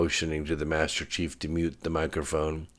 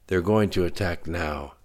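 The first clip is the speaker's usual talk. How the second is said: final "now" given mild emphasis; stress on "now". A narrator's reading. Admiral warns the President of attack, stressing "now". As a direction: lean on "now" like starting a race. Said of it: "stressing the last word like he was starting a race".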